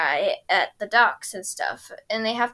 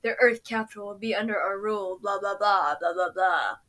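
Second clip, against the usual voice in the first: lightly voiced villain; 3 semitones lower than usual. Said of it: "and he goes".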